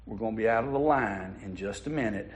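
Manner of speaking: put-on calm the child down softly; quiet mom. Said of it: "The mom quietly said".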